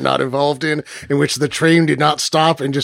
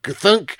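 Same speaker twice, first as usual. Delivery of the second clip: a single heavy stamp noise, voiced; heavy clunk; 5 semitones higher than usual. Shown as a demonstration. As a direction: thud it out like a rubber stamp. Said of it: "machines that make that sound … I'm making it anyway".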